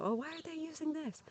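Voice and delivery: high mocking voice of a judgmental outsider; mocking judgmental people; mock disapproving question.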